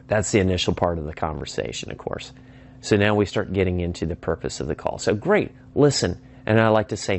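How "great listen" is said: "Great" high and drawn out, "listen" falling; emphatic descending tone. Shown as a demonstration. Caller turns to the purpose of the call, emphatic descending tone. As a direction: land "Great, listen" slowly as a falling command. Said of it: "say it emphatically with a descending tone".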